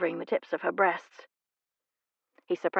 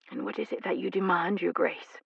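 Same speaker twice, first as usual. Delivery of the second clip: breathless; 4 dB quieter than usual. Acted. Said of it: "she asked breathlessly".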